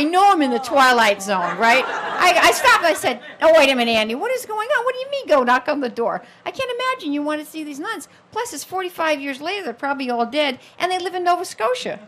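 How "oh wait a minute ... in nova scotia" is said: raised, high disbelieving objection; incredulous protest. Retold or imitated. Telling her brother he makes no sense, loudly incredulous. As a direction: push back in loud amazement. Stunned at brother's odd request.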